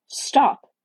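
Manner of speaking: urgent pleading cry; imploring. A narrator's reading. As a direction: implore him sharply. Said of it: "she implored him".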